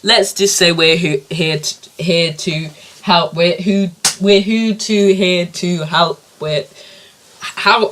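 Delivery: eager, bumbling presenter voice; host fumbling his show's catchphrase; spoof show host. Acted. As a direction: sell the catchphrase and keep fumbling it.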